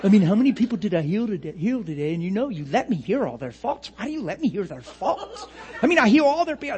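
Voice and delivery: hammed-up put-upon complaint; whining Jesus. Imagined Jesus complaining to his Father, mock whine. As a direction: moan in mock self-pity, sing-song. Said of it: "Could you imagine Jesus talking like that?".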